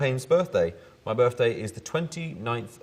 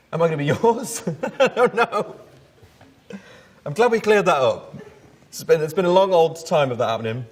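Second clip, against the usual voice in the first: embarrassed laughing; 10 semitones higher, 6 dB louder than usual. Real, not acted. Embarrassed by the daddy question.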